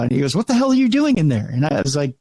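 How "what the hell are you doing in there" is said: higher, louder and faster, mock angry repeat; retold exasperated yell. Engineer repeating his demand to the host, mock exasperated. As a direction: push the grumpy engineer's question harder.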